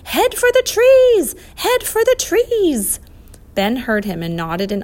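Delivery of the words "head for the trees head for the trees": high, loud, drawn-out yell; urgent long-range shout, pitched high; yelling loudly. A narrator's reading. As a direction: yell it slowly across a distance. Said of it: "yelling to the boys as loudly as he could".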